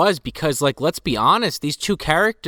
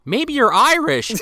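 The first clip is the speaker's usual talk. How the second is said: mock Russell; 13 semitones higher, 3 dB louder than usual. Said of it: "Russell goes".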